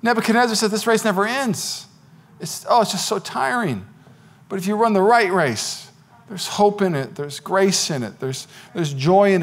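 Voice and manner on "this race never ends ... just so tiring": softer, drawn-out weary quote. Acted. King testifies about a race that never ends, weary. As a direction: sigh it out as if worn down. Acting out the king's tired testimony.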